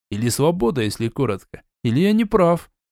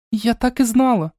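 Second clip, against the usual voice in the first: exclaiming; 10 semitones higher than usual. A narrator's reading. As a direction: burst out in recognition. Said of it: "воскликнула сестра".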